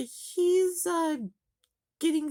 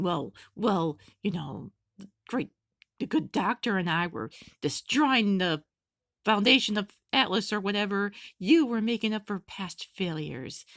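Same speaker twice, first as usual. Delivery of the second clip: mock taunt; 3 semitones lower than usual. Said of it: "he kinda taunts Cinder".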